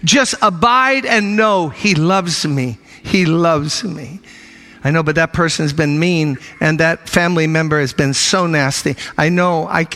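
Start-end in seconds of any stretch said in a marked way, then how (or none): 0.0-4.2 slow assurance. Acted. Slow repeated affirmation.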